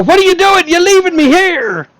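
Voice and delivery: pirate shout. Acted. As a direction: bellow it like a pirate. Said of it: "Doom shouts from the shore".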